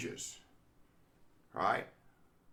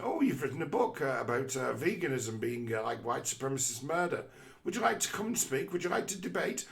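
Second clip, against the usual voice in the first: mock eager inviter; 3 semitones higher than usual. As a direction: gush out the invitation to the author. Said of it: "But that person".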